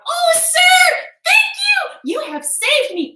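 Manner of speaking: very high, loud and grateful; a tiny fairy gushing thanks; squeaky little fairy, delighted. Acted.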